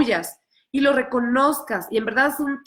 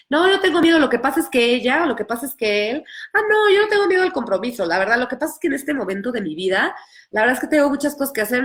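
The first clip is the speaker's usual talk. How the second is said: mock denial; faster than usual. Person denying fear of commitment, hurried defensive excuses. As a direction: rattle off excuses to hide the fear.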